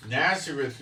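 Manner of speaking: "Nazareth" said the Hebrew way, nat-SE-ret; Hebrew pronunciation. Shown as a demonstration. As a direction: say "Nazareth" with TS and a final T. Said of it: "Nazareth is pronounced".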